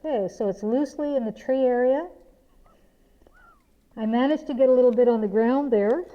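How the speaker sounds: muffled speech behind a dust mask; through a face mask. Real, not acted. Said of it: "this is what I sound like with a mask on".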